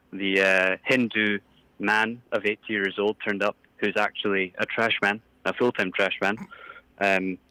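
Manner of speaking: lightly put-on Scottish priest; Scottish caller complaining; a hint of a Scottish brogue; Scottish accent. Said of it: "I can't tell with your accent".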